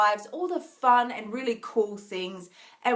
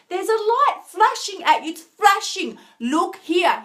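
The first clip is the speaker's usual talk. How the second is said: high, coaxing voice of the calling light; sing-song coax, like a light beckoning you; 7 semitones higher, 4 dB louder than usual. Pretend. Voicing the flashing light calling her.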